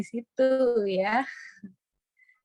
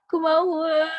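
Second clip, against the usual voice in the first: higher, louder, with a lilting tune; lilting, much higher read of a friend's chat; sing-song reading; 8 semitones higher, 7 dB louder than usual. Shown as a demonstration. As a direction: read the chat the way she'd say it, melodic. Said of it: "Kalau baca chat Vini tuh kayak bernada gitu".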